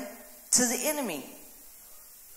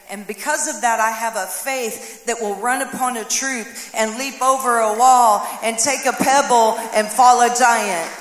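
preaching climax; 8 dB louder than usual. Real, not acted.

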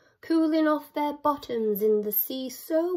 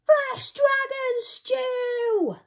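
much higher, slow, drawn-out cry; greedy Vikings; 13 semitones higher, 5 dB louder, much slower than usual. Acted. Vikings telling the dragon their plan, greedy. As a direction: savour each word greedily. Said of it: "cried the Vikings".

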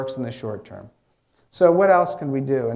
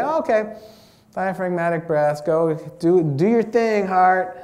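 easygoing self-talk; 4 semitones higher, 5 dB louder than usual. Shown as a demonstration. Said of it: "So you say".

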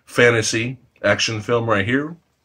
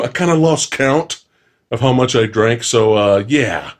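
tipsy; 3 semitones lower than usual. Real, not acted. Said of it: "I'm a little tipsy right now".

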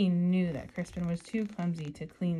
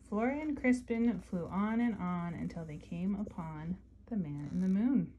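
story narration. Acted. Reading together aloud.

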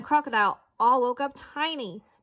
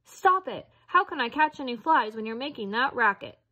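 croaking frog. Acted.

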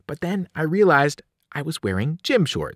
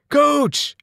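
high, urgent call; yell for help; 13 semitones higher, 4 dB louder than usual. A narrator's reading. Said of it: "I yelled".

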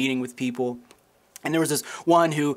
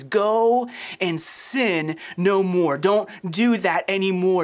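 slow earnest command; 2 semitones higher, much slower than usual. Retold or imitated. Jesus quoted, slow and earnest.

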